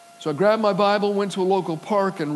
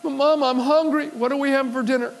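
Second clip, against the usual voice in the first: put-on hungry boy pleading; 5 semitones higher than usual. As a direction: whine to mama for dinner. Little boy begging his mother.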